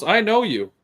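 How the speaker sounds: high, eager voice for the clerk; imitating gas station guy. Clerk recognizing the trucker, high eager voice. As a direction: play the clerk who just recognized him.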